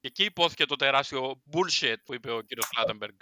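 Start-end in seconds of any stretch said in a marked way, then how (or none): 1.5-1.9 English word in a put-on British accent. Quoting the British referee, English accent. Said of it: "Το λες με προφορά".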